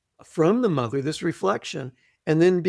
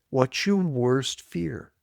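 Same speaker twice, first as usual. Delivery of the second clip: guided exercise voice; 3 dB quieter than usual. Acted. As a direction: lead the listener gently into the question. Repeats exercise question.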